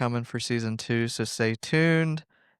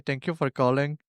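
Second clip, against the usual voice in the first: Indian telemarketer accent. Shown as a demonstration. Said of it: "I always say".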